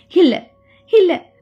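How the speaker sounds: a slow, terrified denial; screaming denial. A narrator's reading. Deepika crying out at her mirror image in fear. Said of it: "அலறினாள் Deepika".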